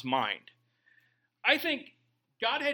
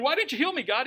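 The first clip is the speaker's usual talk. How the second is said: whiny complaint; 7 semitones higher, 4 dB louder, faster than usual. Retold or imitated. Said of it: "they get to heaven".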